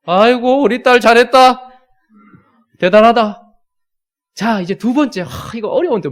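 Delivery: dad cheering daughter half-heartedly, hammed up; hammed-up praise. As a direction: overdo the praise though you don't mean it. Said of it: "마음에도 없지만".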